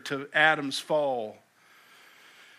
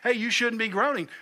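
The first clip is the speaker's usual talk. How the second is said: mock scold; 6 semitones higher than usual. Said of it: "that person and say".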